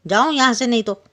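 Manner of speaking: fast, rising to a loud threat; angry lion. Acted. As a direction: snap the warning out quickly. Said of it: "अब शेर को गुस्सा आया". (गुस्से में तेज़ी से धमकाता शेर)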